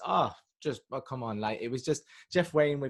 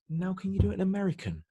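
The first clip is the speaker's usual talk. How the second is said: casting director; 8 semitones higher than usual. Retold or imitated. Acting the casting director's request.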